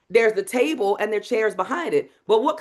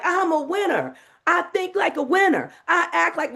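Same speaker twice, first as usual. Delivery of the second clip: high, hurried, no pause for the repeat; rushing the call and repeat; rushed mantra; 8 semitones higher than usual. Shown as a demonstration. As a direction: rattle it off too fast. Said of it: "you can't just be like".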